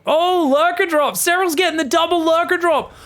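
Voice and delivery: high, loud burst of excitement; excited play-by-play. Real, not acted. Caster spots a double Lurker drop, excited. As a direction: call the surprise attack with a sudden jump in pitch. Commentator reacting to surprise attack.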